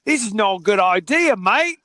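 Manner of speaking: attempted Australian, rising on "mate"; amateur Australian impression; bad Australian accent. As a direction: do a shaky-at-best Australian accent. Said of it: "if that's a good Australian accent".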